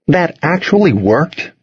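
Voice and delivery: slow, high-pitched astonishment; floored. A narrator's reading. Toby hears of the church barbecue excuse, floored. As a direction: ask it as if you can hardly believe it.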